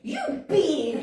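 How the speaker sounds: loud, high mock insult; retold sassy attitude. Swearing back at her, loud sassy retort. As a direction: throw it back with playful venom. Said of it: "With that Wahio Tira girl banana attitude".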